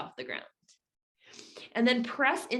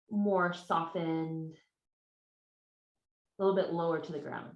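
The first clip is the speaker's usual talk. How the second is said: guided meditation. Real, not acted. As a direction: ease them into stillness with long pauses. Leads slow opening meditation.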